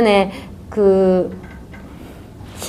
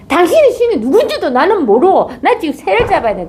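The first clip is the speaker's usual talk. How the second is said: angry; 8 semitones higher, 3 dB louder than usual. Acted. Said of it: "막 화를 내는 거예요".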